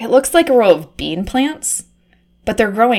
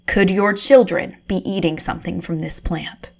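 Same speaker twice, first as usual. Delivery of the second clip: hushed documentary narration; 2 semitones lower, 3 dB quieter than usual. Acted. Reporter whispering into her recorder about the lab. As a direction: narrate it like a secret exposé.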